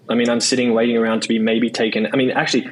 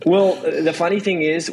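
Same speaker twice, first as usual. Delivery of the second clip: laughing; 6 semitones higher than usual. Real, not acted. Laughing after being teased.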